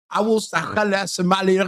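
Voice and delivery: slow, hammed-up mock Somali accent; fake Somali accent. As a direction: stumble through a badly faked Somali accent. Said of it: "a Somali accent".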